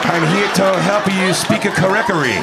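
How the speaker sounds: put-on high-pitched caricature of an Asian accent; mock Asian accent. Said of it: "talking with a racist Asian accent".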